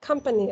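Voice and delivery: "Company" stressed on COM, falling away after; first-syllable stress. Shown as a demonstration. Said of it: "First stress, okay?".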